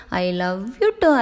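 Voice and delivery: drawn out very slowly, lovingly; slow tender reply. Acted. Wife answering her husband's confession, slow and tender. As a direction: let each word linger.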